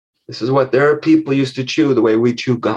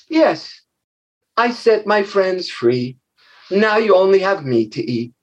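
put-on brave little girl; 4 semitones higher than usual. Little girl defying the huge monster, high brave voice. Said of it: "and she said".

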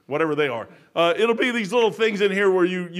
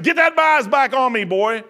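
stern loud command; 5 semitones higher, 6 dB louder, slower than usual. Retold or imitated. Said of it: "I said".

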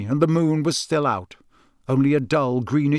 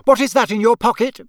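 higher, louder accusing demand; stern interrogation; 8 semitones higher, 5 dB louder than usual. A narrator's reading. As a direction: demand an answer like a suspicious mother. Mother interrogates her guilty son.

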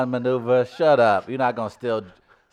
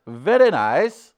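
slow, loud, badly faked British; stretched-out mock British accent; 4 semitones higher, 6 dB louder, slower than usual. Comic obeying his co-host's request, slow bad British accent. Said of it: "in your British accent".

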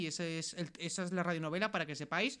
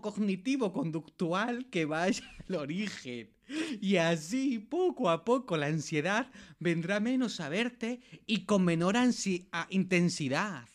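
put-on slow, drawn-out Eastern European accent; 3 dB louder, slower than usual. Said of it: "con acento de Europa del Este".

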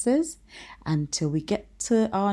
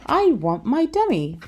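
put-on much higher, louder child's whine; bossy little princess; 8 semitones higher, 5 dB louder than usual. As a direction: demand it like a spoiled girl. Princess whining again.

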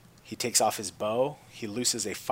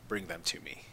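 whisper; 5 semitones lower, 7 dB quieter than usual. Acted. Thanos orders Nebula.

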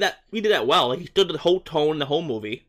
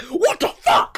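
much higher, laughing mock outrage; mock shock; 14 semitones higher, much slower than usual. Friend retelling the character's drunk outburst, laughing mock shock. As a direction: squeal it through a laugh. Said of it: "He's like".

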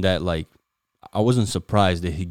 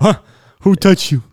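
higher, louder playful shout; mock yell; 13 semitones higher, 10 dB louder than usual. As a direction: bellow it like a brawl. Mocking the brawl, yelling.

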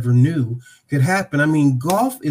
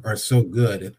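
"or so good" dropped lower and softer, tongue in cheek; modest, wry "so good", quieter; self-deprecating; 3 semitones lower, 4 dB quieter, slower than usual. Real, not acted. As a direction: take the brag back with a wink. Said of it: "relatively speaking".

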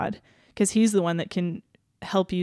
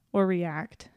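whisper. Retold or imitated. Podcast host voicing Jesus, whispered. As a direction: breathe the last words out. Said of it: "And Jesus is like".

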